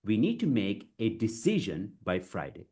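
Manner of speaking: measured phrases with short pauses; deliberate model sentence in three chunks; chunked delivery. Shown as a demonstration. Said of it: "you break it".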